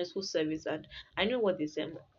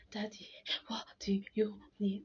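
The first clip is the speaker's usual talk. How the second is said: halting, sobby plea to daddy; tearful child, retold; 2 semitones higher, 5 dB quieter than usual. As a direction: imitate speech broken by crying. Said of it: "when you're crying and the cry can show up".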